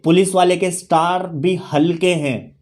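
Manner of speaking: measured, unhurried lyric quote; quoted song lyric. Retold or imitated. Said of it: "वो कहते हैं ना कि एक गाना था".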